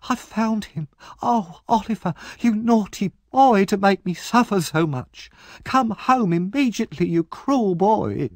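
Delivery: Nancy fakes a family scene; hammed-up sister cry. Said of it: "started to cry loudly".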